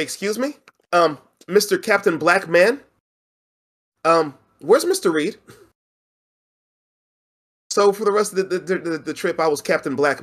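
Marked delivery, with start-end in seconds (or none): 0.0-5.4 put-on timid kids. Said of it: "the kids would tap me and say".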